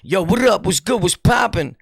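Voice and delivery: lightly mimicked street dude; quick mock street greeting; street slang talk. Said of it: "same dude that talks like".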